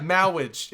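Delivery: "mowage" with W in place of R. Acted. Player echoes friend's quote, "mowage" with W for R. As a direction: imitate a priest who can't say R in "mowage". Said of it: "all of his R's as W's".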